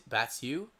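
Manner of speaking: Batsu as "BAT-syoo", questioning; trial pronunciation. Shown as a demonstration. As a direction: try Batsu with a "tsyoo" ending, rising. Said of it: "That might be right".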